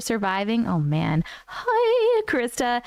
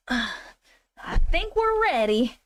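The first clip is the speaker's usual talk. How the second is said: slow, sighing and drawn out; tired, dragged-out repeat; weary sigh; 3 semitones higher, much slower than usual. Shown as a demonstration. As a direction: sigh it out like you're over it.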